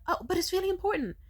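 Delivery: high, quick, loud pleading; pleading child. Retold or imitated. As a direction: imitate a kid begging to be heard. Child pleads with busy mother.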